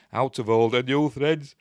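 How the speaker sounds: talking with a sneeze coming; about to sneeze. Real, not acted. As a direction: push through an oncoming sneeze. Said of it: "I'm gonna sneeze".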